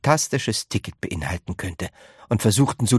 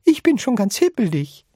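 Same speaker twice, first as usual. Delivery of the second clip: high, louder giddy granny; fidgety excitement; 13 semitones higher, 4 dB louder than usual. A narrator's reading. Grandma Georgina admits her nerves, high and giddy. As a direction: bubble over like an eager grandma.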